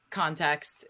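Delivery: normal talking voice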